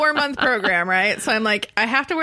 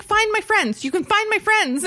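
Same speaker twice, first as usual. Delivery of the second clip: high-pitched insisting; 11 semitones higher than usual. Retold or imitated. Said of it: "I was like".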